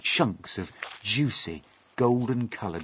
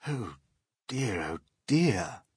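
worried; 3 semitones higher, slower than usual. Acted. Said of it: "said the old green grasshopper".

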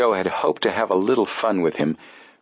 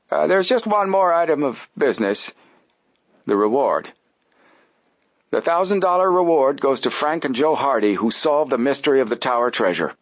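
put-on high, formal old man voice; stiff old gentleman; 7 semitones higher than usual. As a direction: announce it like a stuffy old man. Applegate voiced.

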